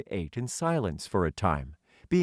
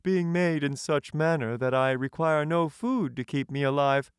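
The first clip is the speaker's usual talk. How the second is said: Tin Man voice; 10 semitones higher than usual. Acted. The Tin Emperor welcoming a hungry stranger, high and stately. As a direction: lift the voice high and speak as a courtly tin ruler.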